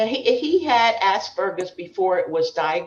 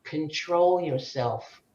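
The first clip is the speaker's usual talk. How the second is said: father's stern advice; 4 semitones lower, 5 dB quieter, slower than usual. Retold or imitated. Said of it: "He says".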